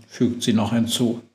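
plain reading voice

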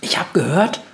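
high, self-important squeak; proud mouse. A narrator's reading. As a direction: show off in a little mouse voice. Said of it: "sagt die Maus stolz".

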